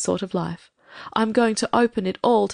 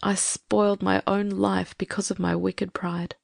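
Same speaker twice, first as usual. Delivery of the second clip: put-on sad old lady; 5 semitones higher, 3 dB quieter than usual. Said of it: "said the old lady sadly".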